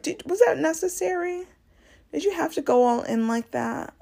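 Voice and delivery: high, pointed disbelief; imitating a viewer scolding a senator; incredulous scold. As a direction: call him out, incredulous. Scolding Cory.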